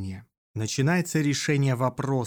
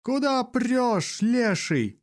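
shouting; 11 semitones higher, slower than usual. A narrator's reading. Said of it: "слышит Иона возгласы".

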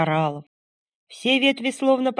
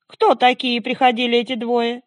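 snowman voice; 5 semitones higher, 4 dB louder than usual. Acted. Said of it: "спросил снеговик".

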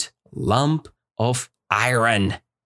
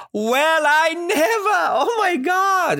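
delighted cry. Retold or imitated. Teacher showing students the old woman crying full of smiles. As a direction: cry out in happy disbelief. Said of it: "she cried in full of smiles".

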